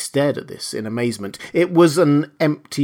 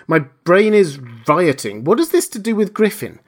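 high, agitated bewilderment; overwhelmed, pitch climbing into the question; bewildered; 6 semitones higher, 5 dB louder than usual. A narrator's reading. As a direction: ask it in baffled agitation. Kemp overwhelmed by the revelation.

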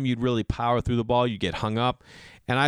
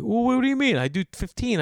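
defensive tipper; 12 semitones higher than usual. Retold or imitated. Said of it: "And he's like".

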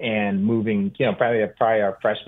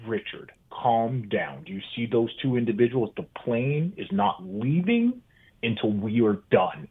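Bill Walton impression. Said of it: "And Bill was like".

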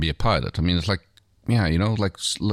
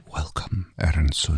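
sexy voice; 4 semitones lower, slower than usual. Acted. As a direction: lean into the mic and purr it. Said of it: "do your sexiest voice".

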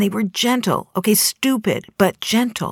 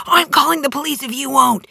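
retold shout, much higher and louder; screaming; 9 semitones higher, 4 dB louder than usual. Tow truck driver yelling his threat at the woman, hammed-up shout. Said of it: "started to scream at me".

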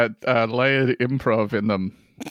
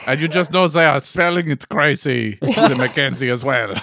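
mock French aside; French accent. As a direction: comment in a put-on French accent. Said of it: "French person with a French accent".

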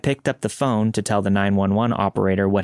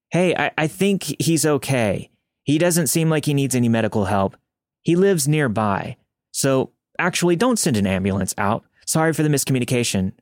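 higher, breezy fake-calm phone voice, a bit halting; pretend casual call-off; 4 semitones higher than usual. To the 911 operator with the injured man listening, a falsely light call-off. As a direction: sell the lie that all is fine. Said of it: "Pretend to tell me not to come".

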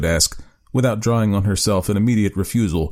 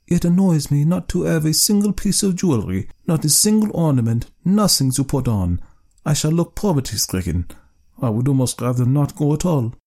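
vexed wife; 7 semitones higher than usual. Acted. Wife voiced in story.

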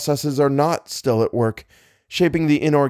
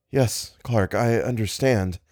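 compassionate; slower than usual. Acted. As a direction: soothe a horrified friend. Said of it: "voice was vibrant with compassion".

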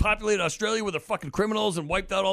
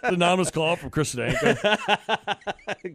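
payphone call; slower than usual. Pretend. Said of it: "mock operator announcement".

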